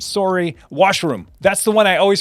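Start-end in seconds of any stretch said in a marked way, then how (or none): 0.0-0.6 "sorry" as SORE-ee; round, long O in "sorry"; Canadian sorry. Shown as a demonstration. Recalling words heard in Canada, "sorry" as SORE-ee. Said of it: "I heard sorry".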